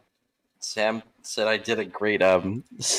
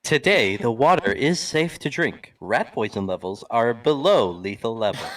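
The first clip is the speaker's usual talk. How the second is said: flat echoey pa page. Pretend. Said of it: "intercom voice".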